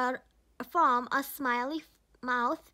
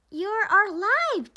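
slow, amazed gasp, pitched up and louder; 6 semitones higher, 7 dB louder, slower than usual. A narrator's reading. Jack finds his snowman moving at night, gasped in amazement. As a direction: breathe it out in wonder. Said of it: "gasped Jack".

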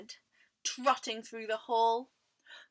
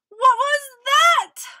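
high, loud startled cry; alarmed question; 14 semitones higher, 17 dB louder than usual. A narrator's reading. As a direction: blurt it out in storybook fright. Frightened animals hear strange rumble.

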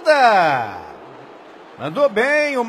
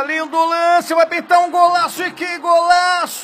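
rising excitement, faster, louder; excited commentary; 5 semitones higher, 3 dB louder than usual. Real, not acted. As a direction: build up to the goal. Goal chance, live commentary.

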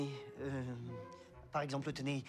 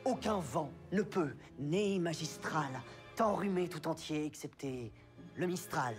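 emphatic. Acted.

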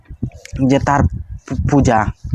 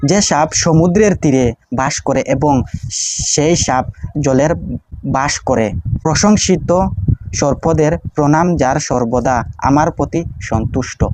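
prayer recitation; slower than usual. Shown as a demonstration.

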